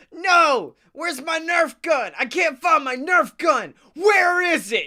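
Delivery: high, loud mock tantrum; high-pitched indignant kid yelling; petty boy screaming. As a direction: imitate a little boy screaming the house down. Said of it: "being a very petty little boy by screaming".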